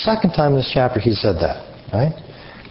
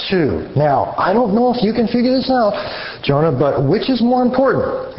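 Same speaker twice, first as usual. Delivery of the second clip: sarcastic God; 5 semitones higher than usual. Retold or imitated.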